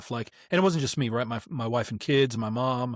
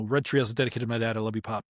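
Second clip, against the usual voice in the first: heartfelt dedication; 3 semitones lower, much faster than usual. Real, not acted. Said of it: "a fresh me saying it as I record".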